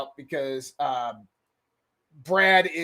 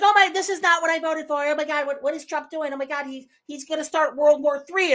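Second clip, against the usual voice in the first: high, whiny mock panic; a touch of hammed-up alarm; 8 semitones higher than usual. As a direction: mimic hand-wringing voters, pitched up. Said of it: "Everybody's like".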